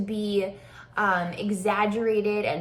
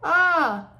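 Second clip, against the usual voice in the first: high, loud demo "ah"; wrong-way "ah"; 6 semitones higher, 6 dB louder than usual. Shown as a demonstration. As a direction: show the mistaken vowel loudly. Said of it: "I'm not doing this".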